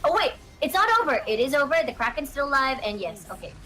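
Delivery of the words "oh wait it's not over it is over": sudden higher-pitched, quick outburst; a little excited. Real, not acted. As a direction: jump in as if the game just turned. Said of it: "I got a little excited there".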